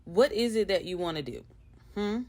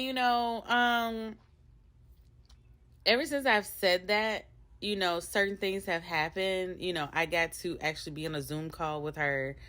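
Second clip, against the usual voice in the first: normal talking voice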